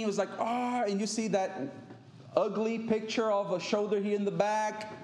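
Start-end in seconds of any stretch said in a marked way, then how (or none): 0.4-0.8 half-hearted, higher-pitched cry of pain; mock scream. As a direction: imitate an injured friend's drawn-out "ah". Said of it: "the screaming".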